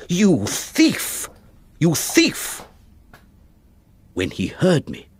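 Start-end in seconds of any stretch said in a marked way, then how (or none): 0.1-2.6 accusing cry. Acted. Father accuses his son.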